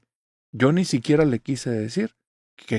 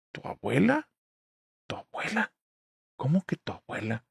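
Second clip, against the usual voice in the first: stunned disbelief; 4 semitones higher, 7 dB quieter than usual. Retold or imitated. Mom stunned by mention of grandma.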